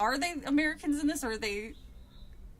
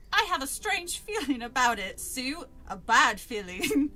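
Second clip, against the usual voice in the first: drawn-out, badly faked British reading; attempted London accent on a character line; stagey amateur British accent; fake British accent; 5 dB louder than usual. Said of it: "what a fucking British accent sounds like".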